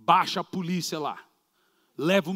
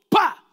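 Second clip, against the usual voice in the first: loud slapping thud imitated; sharp mock thud of a body hitting the floor; smack sound; 12 semitones higher, 8 dB louder than usual. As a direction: spit out a sharp smack noise. Man thrown to the ground.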